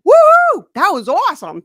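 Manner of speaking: very high, loud cheer easing into delight; elated whoop. Acted. Speaker high-fiving God after a success, elated whooping. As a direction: whoop it out in playful triumph.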